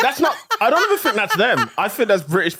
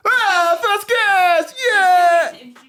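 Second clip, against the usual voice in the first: high squealing mock cheer, pitched way up; mocking excited intro; 11 semitones higher, 4 dB louder, much slower than usual. Mocking cohost's intro, high and loud. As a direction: parody his overexcited welcome.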